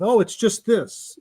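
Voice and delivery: slow, offhand shrug of a line; dismissive brush-off. Retold or imitated. Forte at breakfast, brushing off the move as nothing, mock-dismissive. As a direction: wave it away like it's nothing. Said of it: "very dismissive".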